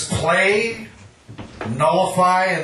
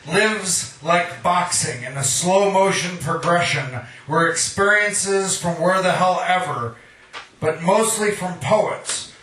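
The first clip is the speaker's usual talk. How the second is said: measured, rhythmic poem recital; poetry reading. Acted. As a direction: read it like a poet at an open mic. Reads his own poem aloud.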